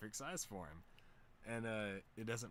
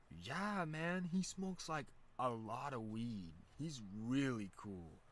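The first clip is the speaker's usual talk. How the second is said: drawn-out, emphatic imitation of a true believer; emphatic insistence; 3 semitones higher, 4 dB louder, much slower than usual. The speaker explaining why a rapper is cool, slow and emphatic.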